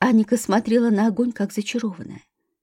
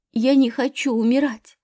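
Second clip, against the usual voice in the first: ordinary delivery, nothing marked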